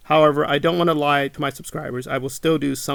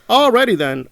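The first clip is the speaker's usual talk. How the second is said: sarcastic alrighty; 7 semitones higher, 5 dB louder than usual. Retold or imitated. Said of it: "And I'm like".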